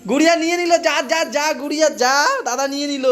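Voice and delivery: high-pitched playful egging-on; excited urging. Real, not acted. Egging Guriya on after brother grabbed it, excited urging. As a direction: pitch it up and urge her on.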